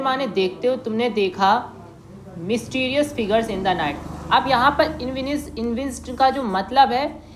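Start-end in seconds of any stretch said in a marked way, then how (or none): 2.4-3.9 slow, drawn-out reading; story reading. Acted. Teacher reading the spy story to class, slowly. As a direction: linger on each word.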